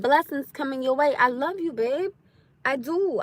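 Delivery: softly spoken, unhurried blessing; genuine affection. Real, not acted. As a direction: soothe a hater with gentle, quiet affection. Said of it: "No, I'm being genuine".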